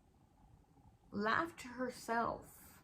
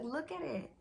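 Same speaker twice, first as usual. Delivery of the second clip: imitating mom; 5 semitones higher than usual. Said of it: "She's like".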